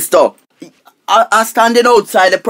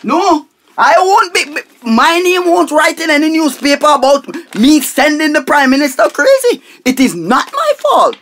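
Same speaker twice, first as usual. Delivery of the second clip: higher, agitated denial; heated protest; 5 semitones higher than usual. Acted. Money minister protests to the school minister. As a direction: push back hard, defensive.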